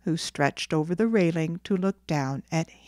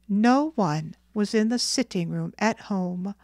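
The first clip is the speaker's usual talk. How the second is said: ordinary delivery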